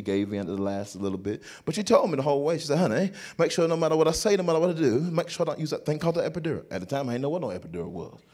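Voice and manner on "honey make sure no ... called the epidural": brisk London wife, lightly imitated; mimicked British accent. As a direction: instruct him quickly in a put-on British accent. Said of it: "she talked with this accent just like this".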